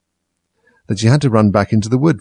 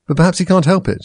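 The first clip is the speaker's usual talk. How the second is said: high to herself; 9 semitones higher, 4 dB louder than usual. A narrator's reading. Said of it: "she said to herself".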